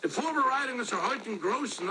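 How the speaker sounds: German mangled with an American accent; broad American vowels and r's in German. Shown as a demonstration. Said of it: "how I would do it like an American".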